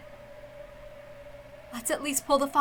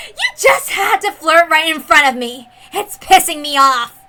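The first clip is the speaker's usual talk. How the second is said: louder, slowing annoyed rant; irritated outburst; 3 semitones higher, 8 dB louder than usual. Acted. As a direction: spit out the irritation. Villain annoyed by the flirting.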